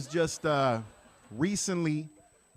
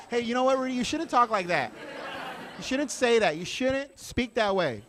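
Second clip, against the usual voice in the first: higher-pitched scolding white lady, lightly voiced; white lady impression; 6 semitones higher than usual. White lady telling the comic off, lightly mimicked reproach. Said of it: "White ladies all the time, they come up to me like".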